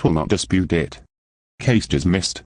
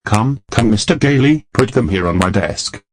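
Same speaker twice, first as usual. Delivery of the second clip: raised voice, higher and louder on Gailey; a judge losing patience, louder; impatient loud demand; 3 semitones higher, 4 dB louder than usual. Acted. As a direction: demand it sharply from the bench.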